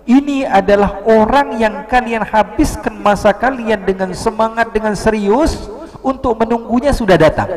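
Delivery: high-pitched proclamation to a crowd; retold cry. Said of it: "Akhirnya dia teriak".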